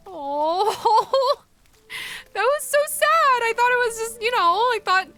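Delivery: high, loud half-crying laugh; teary laughter. Real, not acted. Streamer moved by the sacrifice, laughing and teary at once. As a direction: laugh through tears. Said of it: "I feel terrible now".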